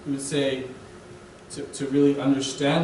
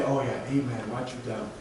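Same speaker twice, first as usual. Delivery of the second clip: smug agreement; 6 semitones lower, 7 dB quieter than usual. Retold or imitated. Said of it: "And we say".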